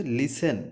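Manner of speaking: "লিসেন" in two syllables, "li-sen"; pronouncing listen. Shown as a demonstration. Teacher repeating the pronunciation of "লিসেন" for learners, careful model pronunciation. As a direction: say "লিসেন" with a silent t. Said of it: "এটার উচ্চারণ হচ্ছে লিসেন".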